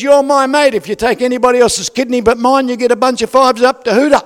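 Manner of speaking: loud, high-pitched retold ultimatum; mock threat. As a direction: threaten your best mate for his own good. Mate's mock threat on phone.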